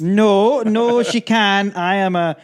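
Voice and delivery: high, loud, emphatic protest; mock indignation. Immigrant protesting his status to friend, mock-indignant. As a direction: declare it with hammed-up indignation.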